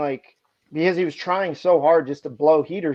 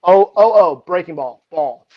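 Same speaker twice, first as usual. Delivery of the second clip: calling out pitches; 7 dB louder than usual. Retold or imitated.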